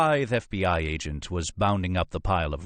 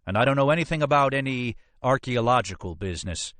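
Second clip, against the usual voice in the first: higher-pitched, defensive captain; blustering police captain; 6 semitones higher than usual. Acted. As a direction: protest officiously as the captain. Narrator voices blustering police captain.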